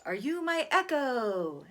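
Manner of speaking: put-on slow, high, curious kid; wondering little boy. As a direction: ask the well shyly, like a small boy. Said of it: "And then he says".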